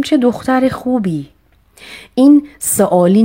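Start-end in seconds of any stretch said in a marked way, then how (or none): 0.0-1.3 high, admiring exclamation. Shown as a demonstration. Teacher demonstrating admiration in an exclamation. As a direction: praise her with delight.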